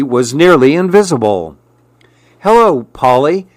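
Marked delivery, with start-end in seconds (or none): 2.4-3.5 a hint of a sly lizard; lightly voiced lizard greeting. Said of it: "said the lizard".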